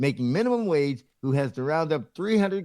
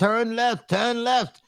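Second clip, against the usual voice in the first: high, yelling British robot sat-nav voice; 8 semitones higher than usual. Mocking people who get lost, as the GPS, in a yelling British robot voice. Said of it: "the British robot voice is yelling at you".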